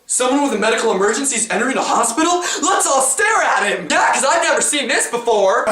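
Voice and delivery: sarcastic mock staff.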